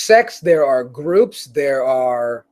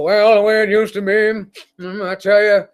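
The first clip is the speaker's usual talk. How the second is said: lightly voiced grumpy old man; a hint of an old-timer reminiscing; old guy voice. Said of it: "this is my old guy voice".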